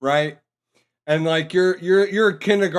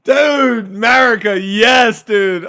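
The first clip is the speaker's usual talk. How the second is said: excited cheer; 3 semitones higher, 5 dB louder than usual. Real, not acted. Cheering the pilot.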